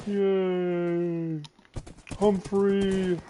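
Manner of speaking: high, loud happy cheer; excited cheer. Real, not acted. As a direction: cheer the horse name with joy. Excited ride on horse.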